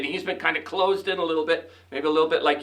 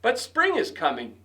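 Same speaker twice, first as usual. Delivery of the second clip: chirped; 5 semitones higher than usual. Acted. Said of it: "Bird chirped".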